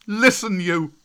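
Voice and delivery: high, loud shout for attention; cried out. A narrator's reading. Mowgli shouting at the wolf pack, a high loud cry. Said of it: "he cried".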